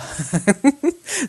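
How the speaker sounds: a quick real laugh at a typo; laugh, genuinely tickled; short high laugh; amused laugh. Real, not acted. Teacher laughs at a student typo.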